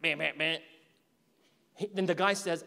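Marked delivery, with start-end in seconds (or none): 0.0-0.6 whimpering meh meh meh; light mock sob; mock crying. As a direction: imitate a soft sob sound. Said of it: "you start crying like".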